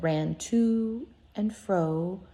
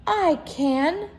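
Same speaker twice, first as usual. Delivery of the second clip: little rabbit boasting; 9 semitones higher, 4 dB louder than usual. Acted. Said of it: "said the little rabbit".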